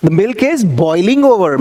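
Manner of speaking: slow, deliberate example; teacher's slow demo sentence; slow model sentence. Shown as a demonstration. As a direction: drill it slowly for learners. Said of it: "तो boil में ING लगा देना".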